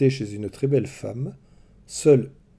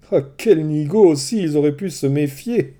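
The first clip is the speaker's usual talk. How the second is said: louder exasperated exclamation; a touch higher, exasperated; exclaiming; 4 semitones higher, 5 dB louder than usual. Acted. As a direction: scold the foolish men. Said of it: "s'exclama la chouette".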